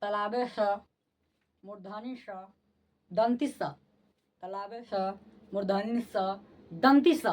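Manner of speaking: careful drill of the three स sounds, each set apart by pauses; teacher drilling the three sibilants for the class; repeated sibilant drill. Shown as a demonstration. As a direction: sound out तलाबे स, मूर्धनी स, दंती स one by one. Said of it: "इसको फिर से बोलिए".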